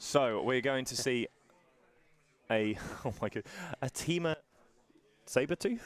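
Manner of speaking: mic cutting in and out; choppy broken-up audio; scrambled voice. Real, not acted. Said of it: "mic is cutting off random points".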